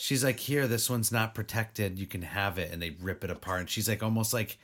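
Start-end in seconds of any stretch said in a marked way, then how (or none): 0.4-2.7 understated, offhand handover; monotone imitation. Co-host imitates the girl handing over a doll, monotone. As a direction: imitate her indifference, letting the voice sink. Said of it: "she's so monotone about it".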